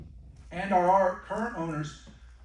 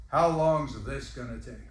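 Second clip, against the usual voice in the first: slow, lower, pointed and impatient; 4 semitones lower, slower than usual. Retold or imitated. An elderly guest asks the salesman, slow and impatient. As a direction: drag it out like a bored guest. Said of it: "Her tone, here it was".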